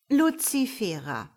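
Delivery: measured reproving name call; mild warning, falling at the end. Acted. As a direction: call her to account, voice falling. God calls the latecomer to account.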